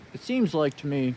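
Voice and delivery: muffled under a helmet; talking through a helmet visor; inside a helmet. Real, not acted. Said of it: "I still have the helmet on".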